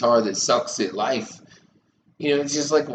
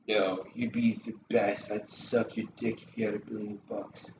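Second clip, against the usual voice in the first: pretend flatterer; 7 dB quieter than usual. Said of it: "I was just pretending to be somebody right there".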